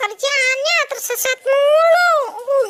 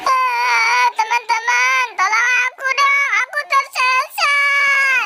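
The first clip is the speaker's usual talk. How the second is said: mild crying; slower than usual. Acted. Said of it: "itu si Mampang lagi nangis".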